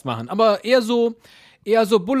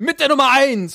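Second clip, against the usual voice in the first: announcer call; 7 semitones higher, 4 dB louder than usual. Shown as a demonstration. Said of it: "dann sagt der eine".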